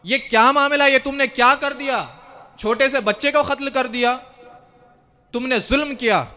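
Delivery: imitating an outraged rebuke; indignant outrage. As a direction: act out shocked accusation, with moderate heat. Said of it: "بہت جلال میں آ گئے".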